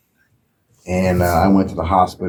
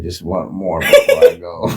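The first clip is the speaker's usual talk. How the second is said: mock dying plea; 4 dB louder than usual. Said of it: "I was like".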